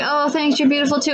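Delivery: reply sweetly, as if flattered; retold sweet thanks. Singer thanking a fan at the show, retold sweetly. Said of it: "she's like".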